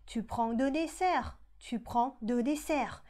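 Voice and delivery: tu prends deux desserts, slow and clear; slow model sentence. Shown as a demonstration. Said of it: "ในรูปนี้ก็ผันเหมือนกัน เป็น". (พูด tu prends deux desserts ช้าๆ)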